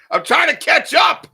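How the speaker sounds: high, loud, flustered burst of laughter-shout; real flustered shout while trying to keep up with the questions; frantic laughing shout. Real, not acted. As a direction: yelp it out, overwhelmed and amused. Flustered host racing through questions.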